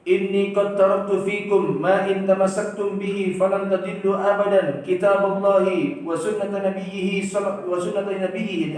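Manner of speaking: slow, intoned Arabic recitation; hadith recitation. Acted. Preacher quoting the Prophet to the class, slow and intoned.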